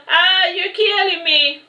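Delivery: high, slow pained cry of a hit mermaid; pained yell. Acted. Mermaid to the fishermen, high slow yell. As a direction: cry out as if being killed. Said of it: "I yelled".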